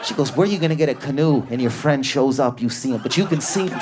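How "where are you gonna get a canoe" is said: lightly voiced woman, higher and quick; quick, higher mock query from a girlfriend; imitated woman. Woman asks the man about his plan, lightly imitated.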